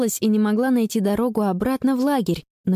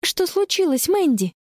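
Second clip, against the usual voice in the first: put-on higher girl's voice asking gently; calm question; 9 semitones higher than usual. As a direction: ask steadily, forcing calm. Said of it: "спокойно спрашивает".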